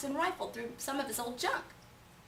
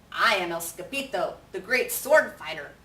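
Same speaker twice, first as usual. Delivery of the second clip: louder, boastful hero voice; proud swordsman; 6 dB louder than usual. Acted. Kitten introducing himself as a great sword fighter. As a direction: announce yourself grandly. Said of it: "said Skippy John Jones".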